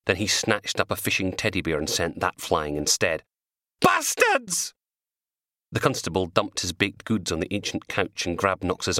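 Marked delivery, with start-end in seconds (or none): 3.8-4.7 very high, loud curse; furious yell. Acted. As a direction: spit the curse out in fury. Man swearing while throwing things.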